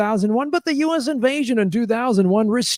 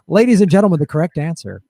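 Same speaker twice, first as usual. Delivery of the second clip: loud host opening, then dropping; game show voice; 3 semitones lower, 4 dB louder, faster than usual. Acted. Host setting up the correct answer, game show voice. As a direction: announce it like a game show reveal. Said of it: "when you do the game show voice".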